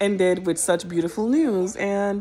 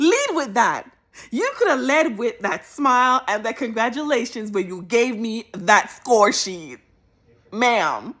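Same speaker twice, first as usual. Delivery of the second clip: playful scolding; 3 semitones higher than usual. Retold or imitated.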